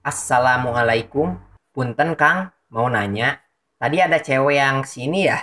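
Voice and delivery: mildly courteous retold greeting; polite tone. Visitor politely asking the shop owner about a woman. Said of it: "dengan nada sopan dia bilang".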